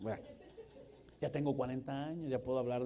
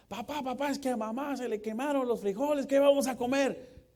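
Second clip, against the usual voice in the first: put-on high, loud panicky kid voice; panicky child; 10 semitones higher, 8 dB louder than usual. Preacher acting a child begging dad, high loud panic. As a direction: whine like a scared little boy.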